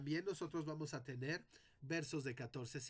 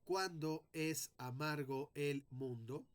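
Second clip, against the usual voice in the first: slow reading; slower than usual. Shown as a demonstration. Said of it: "Si yo leyera normalmente este verso".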